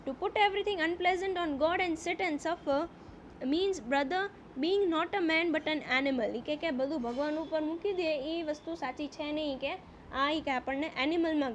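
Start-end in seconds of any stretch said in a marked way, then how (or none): 0.1-6.4 slow, deliberate reading aloud of the English text; slow story reading. A narrator's reading. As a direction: read each phrase slowly, as a teacher before translating. (ધીમે ધીમે વાર્તાનું વાંચન)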